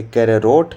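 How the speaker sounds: कैरोट drawn out as "ke-r-rot"; wrong spelling read out. Shown as a demonstration. Teacher rejecting wrong options, reads कैरोट slowly with extra r. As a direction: slowly sound out misspelt कैरोट with doubled r. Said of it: "ये सब नहीं होगा".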